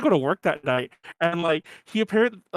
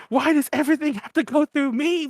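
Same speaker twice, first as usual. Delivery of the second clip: higher exasperated yell; hammed-up drunk rant; mock rant; 9 semitones higher than usual. Drunk host ranting at everyone, mock exasperated. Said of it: "on this mad rant".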